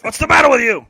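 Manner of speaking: high, loud mock yelling at a boxer; hammed-up high-pitched scolding yell; Adrian. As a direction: shout it like the boxer's despairing wife. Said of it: "Adrian doesn't think he'll win".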